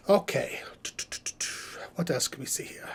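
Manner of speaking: hushed whisper to himself. Real, not acted. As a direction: whisper while reading the chat. Scrolls the chat quietly.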